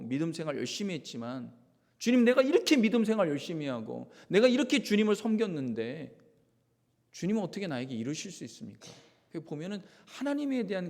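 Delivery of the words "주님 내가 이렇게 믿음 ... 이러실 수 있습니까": raised voice pleading in resentment; resentful complaint. Acted. Pastor voicing a resentful believer complaining to God. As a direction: accuse God, hurt and loud.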